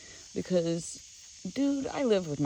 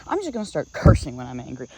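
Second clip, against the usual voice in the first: angry threat; 2 semitones lower, 6 dB louder than usual. Retold or imitated. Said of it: "I yelled at him".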